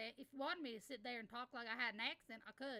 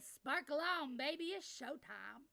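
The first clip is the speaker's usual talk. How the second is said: louder, higher hyped catchphrase; 3 semitones higher, 5 dB louder, slower than usual. Real, not acted. Streamer hypes chat with her catchphrase. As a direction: sell the signature line.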